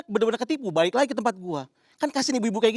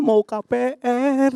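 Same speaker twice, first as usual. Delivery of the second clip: put-on child; 5 semitones higher, 5 dB louder, much slower than usual. Child voiced in the story.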